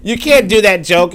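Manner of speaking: scolding crowd quote. Retold or imitated. People scolding the white lady over her joke, mock stern. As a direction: wag a finger at the joke, slowly. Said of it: "people are telling her".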